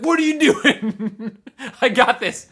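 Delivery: high, slow mock-outraged dad voice, laughing; hammed-up high indignant dad; pissed-off dad. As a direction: squeal the dad's protest in a high put-on voice. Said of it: "he's, like, super pissed at me".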